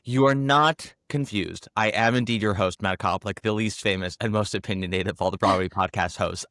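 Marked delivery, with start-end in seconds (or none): 1.8-6.4 hoarse, with laryngitis. Real, not acted. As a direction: talk through a sore, hoarse throat. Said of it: "I just have a very sexy laryngitis voice today".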